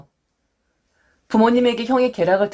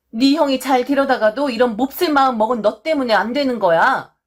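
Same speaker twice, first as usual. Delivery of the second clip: scolding mother; 4 semitones higher than usual. Retold or imitated. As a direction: voice the mother tearing into her son. Mother scolds son at birthday.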